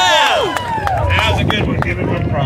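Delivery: high, slow cheering praise; excited cheer. Real, not acted. Emcee cheers after a call.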